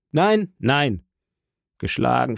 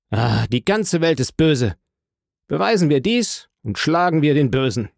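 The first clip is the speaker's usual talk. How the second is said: feverish rage. Acted. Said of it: "mit einer fieberhaften Wut".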